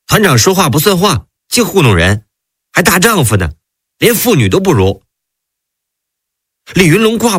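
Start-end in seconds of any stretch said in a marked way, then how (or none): 0.1-5.0 mildly displeased, voice raised higher; a touch of sulky reproach. Acted. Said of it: "不高兴了".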